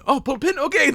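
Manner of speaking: high, loud mock acknowledgement; oblivious mishearing. Acted mishearing of the order.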